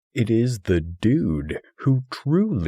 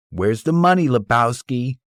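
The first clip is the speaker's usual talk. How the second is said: shouted demand; 2 semitones higher, 6 dB louder than usual. Retold or imitated. Thug shoving the dude's head in the toilet, shouting. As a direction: bark the question like a thug. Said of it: "one shouts".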